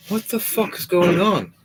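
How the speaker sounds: high, loud what-the-hell cry; panicked shout. Acted. Player character yelling as the building shakes, high panicked shout. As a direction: yell it out in shock.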